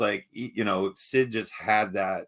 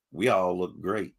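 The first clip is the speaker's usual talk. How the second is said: light Southern drawl, slowed down; a hint of a Southern accent; 3 semitones lower than usual. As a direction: read it with a slow Southern lilt. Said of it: "I said that with a Southern accent".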